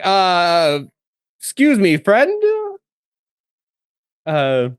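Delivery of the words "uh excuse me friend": tentative hail, pitch climbing; polite interruption. Acted. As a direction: politely get a stranger's attention, lifting the last word. Player addresses noble as character.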